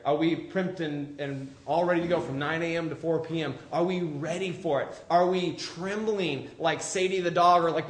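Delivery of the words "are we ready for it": ordinary talk, nothing marked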